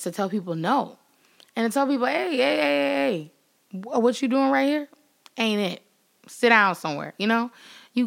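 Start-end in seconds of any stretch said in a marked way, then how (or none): 2.1-7.1 calling someone out. Pretend.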